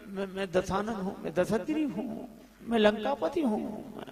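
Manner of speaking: hesitant stammering claim, lightly acted; mock trembling. Frightened confectioner poses as Ravan before Angad, mock trembling. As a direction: stammer the boast as if losing nerve. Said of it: "कांप गया वो".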